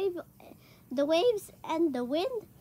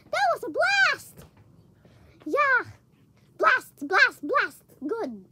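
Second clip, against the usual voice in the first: excited cheer; 5 semitones higher, 5 dB louder, slower than usual. Acted. Disciples cheering after the miracle.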